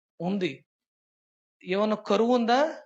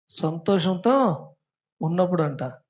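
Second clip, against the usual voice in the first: సంతోషంతో drawn out slowly and louder, each syllable spelled out; slow and deliberate; 2 semitones lower, 4 dB louder than usual. Shown as a demonstration. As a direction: repeat it slowly so the class catches it. (నెమ్మదిగా, ఒత్తి పలకడం)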